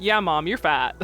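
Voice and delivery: loud jab between bursts of giggles; laughing tease. Acted. Mermoo taunting its mom, said through laughter. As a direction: blurt the taunt mid-laugh. Teasing line amid giggle fit.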